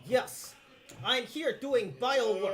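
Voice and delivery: put-on slow, wobbly Russian-German accent; German-tinged accent. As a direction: try out a light German accent, unhurried. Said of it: "you're slipping into a German accent".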